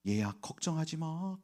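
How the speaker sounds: soft, hushed comfort; grandmother's tender farewell; gentle whisper. Retold or imitated. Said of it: "그러면서 웃으시는데".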